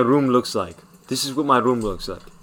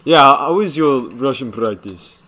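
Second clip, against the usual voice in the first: put-on Ukrainian accent. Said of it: "in a Ukrainian accent".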